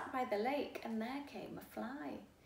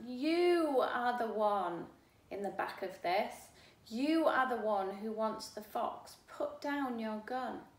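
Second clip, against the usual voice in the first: firm accusation; 7 dB louder than usual. Acted. Narrator confronts the man.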